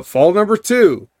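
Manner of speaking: high announcer call. Acted. Announces the fall.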